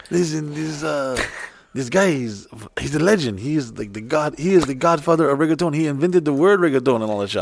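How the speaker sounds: lightly put-on Latin accent; Carlos. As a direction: imitate a friend talking up someone in a light Latin accent. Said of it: "Carlos has zero accent".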